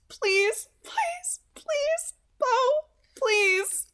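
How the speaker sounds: sobbing plea. Acted. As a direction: beg him with a sob. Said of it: "Edith sobbed".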